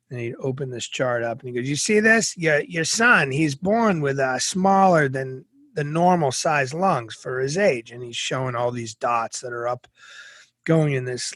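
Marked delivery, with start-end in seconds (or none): 1.7-7.9 mock doctor explaining bad news. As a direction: lecture her like a smug doctor. Doctor explains chart to mom.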